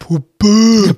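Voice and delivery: loud, drawn-out macho pickup; mock catcall. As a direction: call her over like a joke womanizer. Joke macho pickup call.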